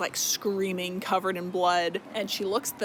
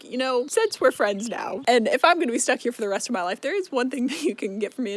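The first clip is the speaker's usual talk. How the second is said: excited; 4 semitones higher, faster than usual. Retold or imitated. Feyre excitedly bargaining, laughing.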